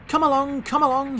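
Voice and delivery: high, loud happy puffing. A narrator's reading. Happy Thomas urging the trucks along, puffing. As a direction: chuff it out gleefully. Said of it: "he puffed".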